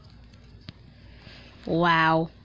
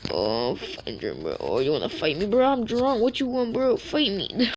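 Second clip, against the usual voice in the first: put-on drunk voice. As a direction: pick a fight, drunk and sloppy. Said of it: "this is what I say when I'm drunk".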